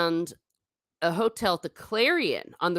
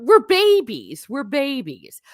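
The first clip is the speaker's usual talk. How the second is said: squealed high; 7 semitones higher, 7 dB louder, slower than usual. Real, not acted. Playful squeal about her size.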